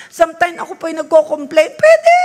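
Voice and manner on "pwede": high, loud, excited "Pwede"; emphatic yes. Real, not acted. Preacher assures the congregation they may ask God, loud and excited. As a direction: burst out the answer "Pwede".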